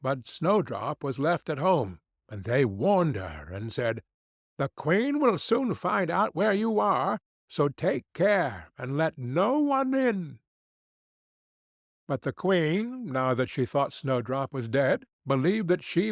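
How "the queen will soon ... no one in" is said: high, earnest dwarf warning; little men anxiously warning her. Acted. Dwarfs warning Snowdrop about the queen, high and earnest.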